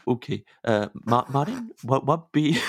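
halting attempt at a Minnesotan accent. Comic asked for guest's dessert as a Minnesotan, hesitant Minnesotan accent. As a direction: try a Minnesotan accent, stumbling over it. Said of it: "as a, as a Minnesotan".

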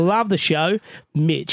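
put-on Aussie reading voice; imitation Australian accent. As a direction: read the letter as an Australian. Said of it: "do this in an Australian accent".

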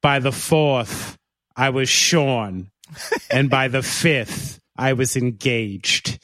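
slow, overblown romance-novel reading; mock sultry reading. Host answering racy listener reviews, slow mock seductive reading. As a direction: savor each line like a seduction, slowly.

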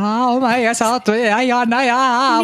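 tongue-tied stammer. Pretend. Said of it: "tekis mieli silleen".

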